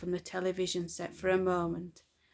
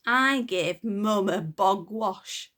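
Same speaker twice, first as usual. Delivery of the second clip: chuckling; 5 dB louder, slower than usual. Acted. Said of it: "chuckled Myrtle".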